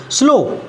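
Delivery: स्लो said in one single beat; one syllable. Shown as a demonstration. Teacher showing one syllable, स्लो in a single beat. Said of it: "एक बार में".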